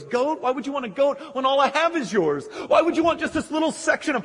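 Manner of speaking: high, quick, baffled plea; exasperated begging. Acted. Father begging son who wants a goat, exasperated. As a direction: reason with him urgently, in disbelief. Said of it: "he begs him".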